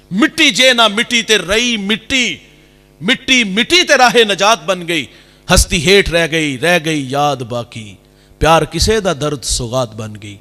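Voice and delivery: slow, chanted poetry recitation; slow Punjabi poem recital; recited verse. Real, not acted. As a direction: draw out each line like a couplet. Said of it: "recites Punjabi verse".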